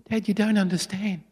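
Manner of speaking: put-on mildly tearful child's plea; lightly acted upset boy; tearful little boy. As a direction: plead gently to be understood. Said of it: "the boy started to cry".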